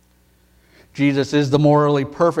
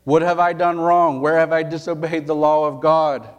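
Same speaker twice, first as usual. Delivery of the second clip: Jesus challenging; 4 semitones higher than usual. Retold or imitated. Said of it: "He would ask them".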